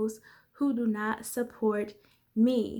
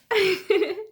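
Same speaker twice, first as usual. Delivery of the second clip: high, loud laugh at her own joke; burst of laughter; 9 semitones higher, 6 dB louder than usual. Real, not acted. Laughing at her own cheeky joke to viewers.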